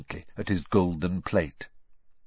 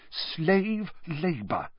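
breathing hard; 9 semitones higher, 4 dB quieter, much slower than usual. A narrator's reading. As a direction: bite out each word in disgust. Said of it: "breathing hard through her nose".

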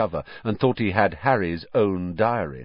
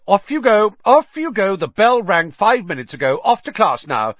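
loud, high and bossy; bossy shout; 11 semitones higher, 7 dB louder than usual. A narrator's reading. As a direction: shoo them off to class. Prefect shooing students.

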